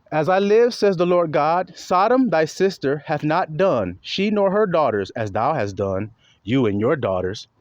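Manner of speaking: measured declaiming in short phrases; scripture reading. Acted. Preacher reading the Lord God's words to the flock, measured declaiming. Reads verse aloud.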